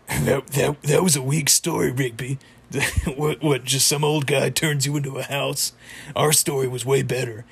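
put-on jeering cartoon voice; Muscle Man. Muscle Man belittles Rigby's story like a jerk, mock scornful. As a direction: scoff dismissively in character, with a laugh midway. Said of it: "he's a jerk, says".

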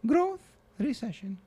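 put-on old immigrant grandmother, broken English; grandma voice. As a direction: play a doting, blunt old grandma. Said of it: "Come on in, Grandma".

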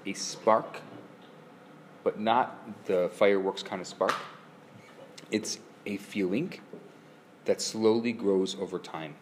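slow, soft poetic delivery; poetic reading. Acted. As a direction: savor each phrase slowly. Poetic slow definition of love.

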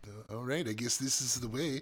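character's awkward line. Acted. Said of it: "she's like".

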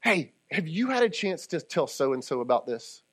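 soft, gentle question. Shown as a demonstration. Preacher modeling a gentler question for grace-filled people, softly. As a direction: ask it quietly, without confrontation. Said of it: "a little bit softer".

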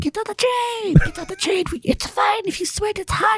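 cartoonish Russian accent; mock Russian accent. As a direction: squeak out a silly Russian accent. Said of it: "In the Russian accent on a train?".

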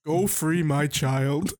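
put-on slow solemn old man. Voicing the reviewer, slow.

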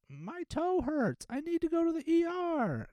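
high, slow, whiny caller; mock a whiny caller with a stubbed toe; whiny mock patient. Mocking trivial 911 callers.

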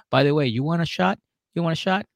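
loud high party offer; drunk excited. Retold or imitated. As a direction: push the shots, tipsy. Drunk guy offering shots.

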